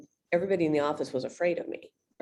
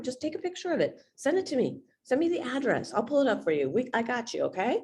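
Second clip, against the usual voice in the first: lightly lifted, reassuring client voice; caring tone; 3 semitones higher than usual. Shown as a demonstration. Agent taking care of a home-buying lead, caring and reassuring. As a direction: reassure them you'll handle everything. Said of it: "you see how the tone is just more".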